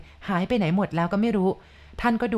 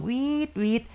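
imitated ghostly shriek; 6 semitones higher than usual. A narrator's reading. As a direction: imitate ghosts shrieking, without raising the volume. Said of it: "พร้อมกับส่งเสี". (เลียนเสียงผีร้องโหยหวนเบาๆ)

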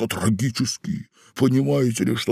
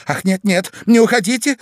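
a pleading cry, louder; 11 semitones higher, 6 dB louder than usual. A narrator's reading. Wife cries out to her husband not to leave. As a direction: cry out to stop him leaving. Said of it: "закричала жена".

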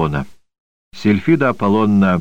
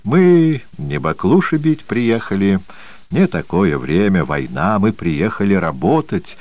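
a hint of a creaky, smug chatterer; smug rapid patter. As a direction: rattle it off, pleased with himself. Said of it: "трещал скрипучей, самодовольной скороговоркой".

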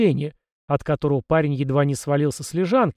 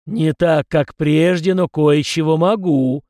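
spirit answering, louder, in mild surprise; surprised reply; 2 semitones higher, 6 dB louder, slower than usual. Acted. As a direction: sound a touch surprised at yourself. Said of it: "удивлённо ответил собеседник". (удивлённо, голосом духа)

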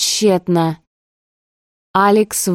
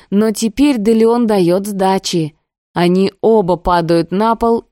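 plain reading voice

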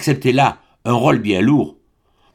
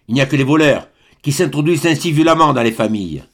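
put-on stern old baron pressing his point harder; a father rebuking a suitor with growing force; more forceful; 3 semitones higher than usual. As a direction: lean on every word, offended and firm. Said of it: "il répéta avec plus de force".

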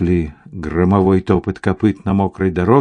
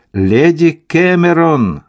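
high, drawn-out call; urgent cry; 7 semitones higher, 4 dB louder than usual. A narrator's reading. Ethel to Lady Cameron as riders approach, urgent cry. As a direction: call out to warn her, stretching the name. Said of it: "закричала Этель".

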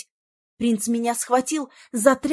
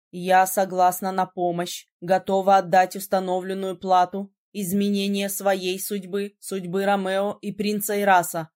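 lower, measured mage voice; calm ritual formula; 5 semitones lower than usual. A narrator's reading. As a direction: recite the oath calmly. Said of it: "спокойно сказал боевой маг". (спокойно, размеренно, ниже)

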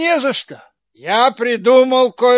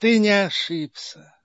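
fake sweetness; 4 dB quieter than usual.

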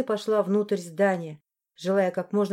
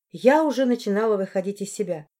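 ordinary talk, nothing marked

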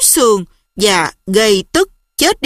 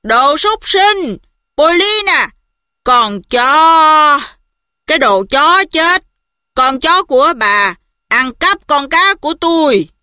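explosive rage; 4 semitones higher than usual. Acted. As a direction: roar it out in drunken fury. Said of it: "Gã bợm rượu gào tiếp".

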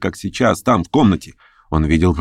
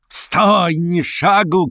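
high sharp shout to stop him; 9 semitones higher, much slower than usual. A narrator's reading. Verkhovensky stopping Stavrogin at the gate, sharp high shout. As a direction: yell at him not to move a step. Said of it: "крикнул он".

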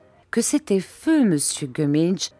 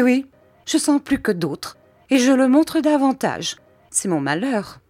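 high, loud whining complaint; high plaintive wail of woe; self-pitying lament; 8 semitones higher, 3 dB louder than usual. A narrator's reading. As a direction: wallow in misery aloud.

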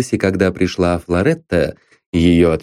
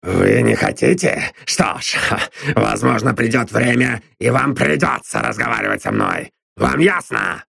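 a hint of a smug gruff man; lightly voiced sneering Drummond; 3 semitones higher than usual. A narrator's reading. Drummond gloats at Constance, lightly voiced and smug. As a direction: gloat that you found her out.

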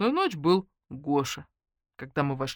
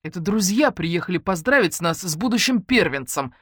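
snide; 2 semitones higher, 5 dB louder than usual. Acted. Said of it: "ехидно ответил Матвей".

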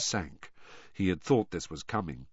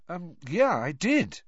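higher-pitched, hesitant confession; Harry admitting; 8 semitones higher, slower than usual. A narrator's reading. Harry admitting to Moody what he saw, hesitant. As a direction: own up a little reluctantly, in a higher voice. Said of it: "Harry admitted".

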